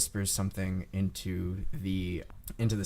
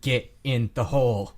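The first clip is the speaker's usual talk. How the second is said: louder, firm menacing command; mean order; 5 dB louder than usual. Acted. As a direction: order them in with a mean glare. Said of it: "the meanest face you've ever seen".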